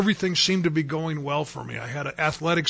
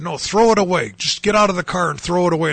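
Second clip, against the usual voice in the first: louder, firm voice of command; mildly raised, insistent inner voice; insistent retold command; 2 semitones higher, 5 dB louder than usual. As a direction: retell an urgent order with some force. Retold argument between two inner voices.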